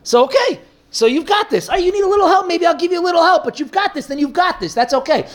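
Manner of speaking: a relaxed, indulgent divine reply; God answering. Retold or imitated. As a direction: answer the lazy prayer with easy amusement. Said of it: "Then God responds like that".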